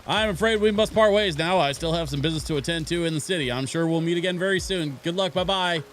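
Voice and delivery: lightly voiced cheery farewell act; departing companion.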